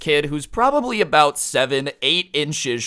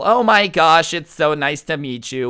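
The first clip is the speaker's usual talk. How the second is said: gushing mom greeting, high and loud at first; hammed-up excitement on meeting someone new; fake excited; 4 semitones higher, 5 dB louder than usual. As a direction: imitate a mom's fake-excited hello. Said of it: "fake thing that moms do when they meet someone new where they act excited".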